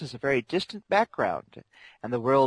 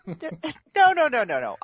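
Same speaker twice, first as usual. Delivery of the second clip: high-pitched dragon voice; 9 semitones higher, 4 dB louder, slower than usual. Acted. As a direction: correct them as a fussy high dragon. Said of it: "My dragon tone there got a little high-pitched".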